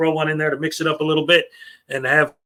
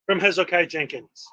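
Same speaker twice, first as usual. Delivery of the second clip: put-on brisk old-time announcer; old radio announcer; 3 semitones higher, faster than usual. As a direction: introduce the guest like vintage radio. Announcer introduces special announcement.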